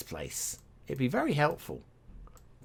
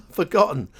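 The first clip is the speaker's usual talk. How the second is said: a loud, higher, playful repeat of the word; mock despair; 5 semitones higher, 8 dB louder than usual. Real, not acted. Player mocking his own memory, loud playful despair. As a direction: throw up his hands and wail it.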